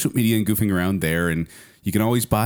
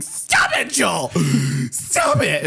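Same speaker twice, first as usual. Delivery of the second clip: mock yell; 6 semitones higher, slower than usual. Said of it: "And Kent going".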